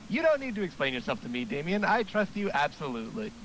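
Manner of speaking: eager gym coach pep talk; hearty coach voice. Acted. Coach voice continues.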